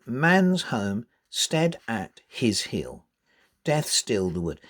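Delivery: slow, "man's" and "death" stressed; emphasised reading. Shown as a demonstration. Teacher reading with the focus marked. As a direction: lean on the strong syllables. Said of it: "You put the focus".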